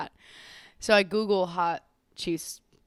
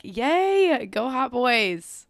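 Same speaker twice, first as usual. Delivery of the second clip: put-on high, loud girly cheer, drawn out slowly; hammed-up fangirl yay for the hot players; mock cheer; 5 semitones higher, 5 dB louder, much slower than usual. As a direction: cheer like a giddy fan in the stands. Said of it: "And I'm just like".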